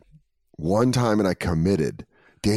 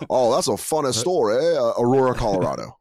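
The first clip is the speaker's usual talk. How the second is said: light Southern drawl. Retold or imitated. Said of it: "Foghorn Leghorn voice".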